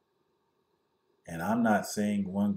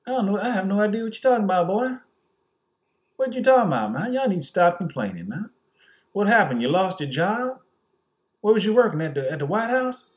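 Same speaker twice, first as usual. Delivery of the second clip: mock white boss; 9 semitones higher, 5 dB louder than usual. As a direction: sneer down at the worker, higher and louder. Mocking white bosses voice.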